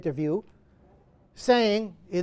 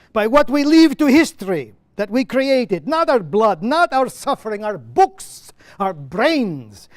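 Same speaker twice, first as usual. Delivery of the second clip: louder, impassioned play reading; Lemkin's monologue; 3 semitones higher, 6 dB louder than usual. Acted. Lemkin answering Petronius from the play, louder and impassioned. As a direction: proclaim it like a driven man with a cause.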